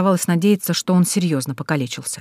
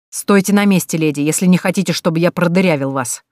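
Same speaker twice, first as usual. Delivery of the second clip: armed bandit threat; 3 dB louder than usual. Acted. Bandit aims gun at her.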